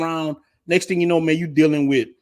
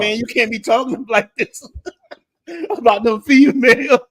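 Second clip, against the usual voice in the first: mock scold. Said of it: "sending me religious pictures".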